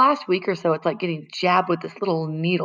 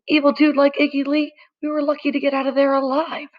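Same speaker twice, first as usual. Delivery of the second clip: high, excited, mock-scared kid; Freak's dramatic voice; 9 semitones higher than usual. A narrator's reading. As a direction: play up the narrow escape, pitched high.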